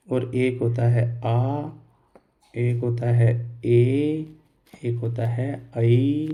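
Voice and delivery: vowel sounds drawn out slowly; teacher stretching the vowels; slow vowel demo. Shown as a demonstration. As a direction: model each vowel slowly for the class. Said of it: "ए का उच्चारण".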